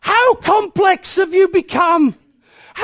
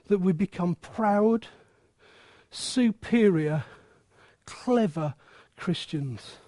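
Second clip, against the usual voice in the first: much softer and lower, measured and grave; serious quiet tone; 6 semitones lower, 6 dB quieter than usual. Real, not acted. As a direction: drop right down and speak earnestly. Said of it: "Let me just talk seriously".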